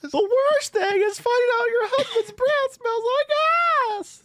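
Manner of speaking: high, slow, hammed-up talk show voice; mock TV host. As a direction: drag it out like a mocking daytime host. Mocking the Maury host.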